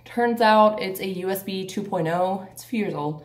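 out of breath from the stairs; winded, catching breath. Real, not acted. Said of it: "I'm, like, out of breath".

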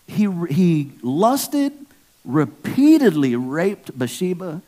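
high, loud, outraged sermon voice; fired-up preaching. Real, not acted. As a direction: hammer the sin home to the congregation. Preacher's heated outrage about David.

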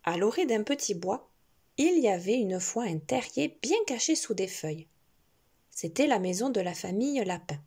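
gentle storybook narration; reading to a toddler. A narrator's reading. Reading a picture book to a child.

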